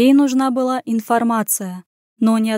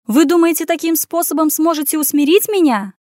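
higher, louder indignant challenge; angry; 6 semitones higher, 4 dB louder than usual. Acted. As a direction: defy them furiously. Furious heroine continues.

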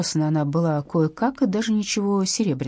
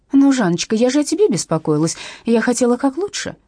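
high pleading drawl; plaintive drawl; 6 semitones higher, 4 dB louder than usual. A narrator's reading. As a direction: plead to be forgiven. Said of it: "жалобно протянула Катя".

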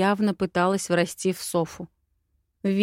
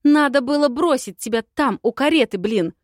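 lamenting; 5 semitones higher, 6 dB louder than usual. A narrator's reading. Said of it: "сокрушалась я".

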